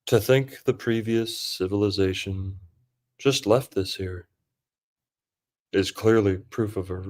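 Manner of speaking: measured mock-narrator, long pauses; lightly put-on hypnotic storyteller; unhurried, portentous pauses between phrases; John Levi. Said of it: "That was John Levy".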